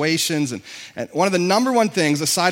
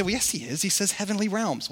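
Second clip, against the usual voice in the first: objecting listener; 2 semitones higher, 7 dB quieter than usual. Retold or imitated. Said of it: "You say".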